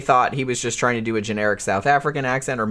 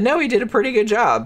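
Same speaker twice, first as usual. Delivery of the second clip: quoted commenters; 10 semitones higher than usual. Retold or imitated. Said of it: "people that are actually from that area said".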